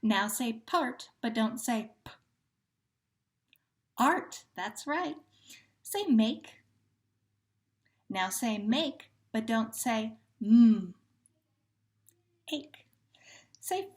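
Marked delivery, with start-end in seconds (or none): 2.0-2.1 "p" as a bare puff, not the letter name; isolated first sound. Shown as a demonstration. Teacher showing the first sound of part to drop, isolated "p". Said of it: "delete the first sound of the word". 10.4-10.9 "mm" as one loud, held hum; isolated first sound. Shown as a demonstration. Teacher showing the first sound of make to drop, isolated "mm". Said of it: "delete the first sound of the word".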